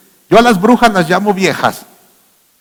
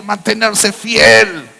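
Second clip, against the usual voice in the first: "mantenerse fiel" muy despacio; aún más lento; 3 semitones higher, much slower than usual. Shown as a demonstration. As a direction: alarga cada sílaba. ("fiel" alargado y lento)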